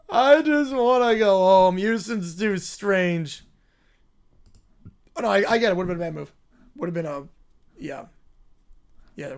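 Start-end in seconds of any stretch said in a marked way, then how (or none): 0.1-3.4 whiny spoiled royal. Acted. Spoiled character complains about the flight, whining. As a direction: whine like a pampered little royal who hates travel.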